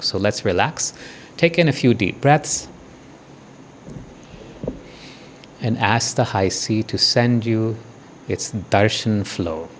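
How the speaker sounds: slow guiding voice with long pauses; guided meditation. Real, not acted. Teacher tells the group to relax and receive darshan, guided meditation. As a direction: lead them gently into it, unhurried.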